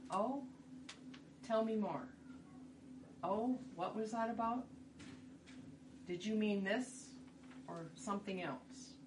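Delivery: curious, open questioning. Shown as a demonstration. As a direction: gently probe with lifted pitch at first. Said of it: "Be curious".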